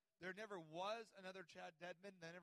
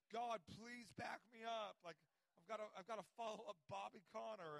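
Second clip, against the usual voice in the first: desperate prayer; 4 semitones higher, 3 dB louder than usual. Retold or imitated. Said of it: "I'm just like".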